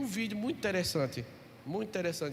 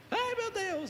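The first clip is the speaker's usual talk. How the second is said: put-on child's whimper; 13 semitones higher, slower than usual. Son voiced before spanking.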